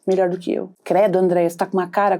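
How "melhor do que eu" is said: cold, accusatory voice. Acted. Envious person relieved the other has fallen, cold and accusatory. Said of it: "com uma voz".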